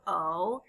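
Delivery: O as a long "oh"; long, clear "oh" sound for O; long vowel sound. Shown as a demonstration. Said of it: "what you say in the long version".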